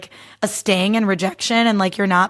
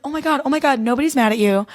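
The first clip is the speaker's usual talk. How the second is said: alarmed reassurance; 4 semitones higher than usual. Retold or imitated. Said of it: "And he was like".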